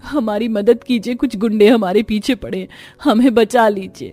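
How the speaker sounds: acted distressed appeal, rising toward the end; desperate pleading. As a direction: beg strangers to save you. Injured women beg passengers.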